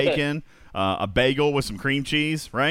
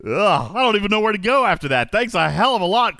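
annoyed ugh; 7 semitones higher, 5 dB louder than usual. Real, not acted. Groans after a terrible pun.

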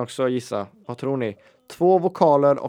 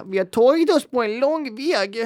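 grand quiz host; 13 semitones higher, 5 dB louder than usual. Pretend. Hamming up the final quiz word.

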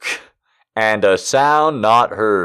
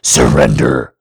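mock; 13 semitones lower, 4 dB louder than usual. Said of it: "now this time it's".

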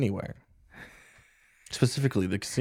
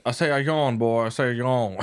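put-on Southern accent; 4 dB louder than usual. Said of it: "Yawns in Southern".

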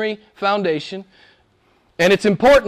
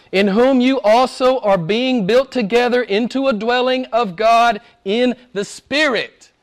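measured reading in phrases, pausing between them; slow scripture reading. Real, not acted. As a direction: read it out deliberately, letting each phrase land. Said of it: "Just listen, I'll read it slow".

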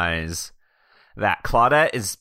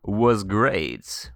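lightly voiced glamorous host; breathy vintage purr; 3 semitones lower than usual. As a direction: purr it like an old-time starlet. Character Clem reads a review.

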